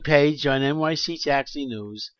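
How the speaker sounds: high, loud pitchman shout-out; loud ad plug. Real, not acted. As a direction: hype it like a radio plug. Calling out an ad plug.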